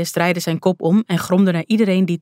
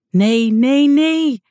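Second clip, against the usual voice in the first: high, loud cry of no, climbing higher on the last; crying out in horror; 8 semitones higher, 5 dB louder, much slower than usual. A narrator's reading. Jacinta seeing the god fall, loud horrified cry. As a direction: shriek the refusal in shock. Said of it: "riep ze uit".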